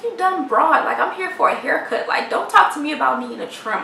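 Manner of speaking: a touch of acted indignation; mildly annoyed. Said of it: "I was just so annoyed".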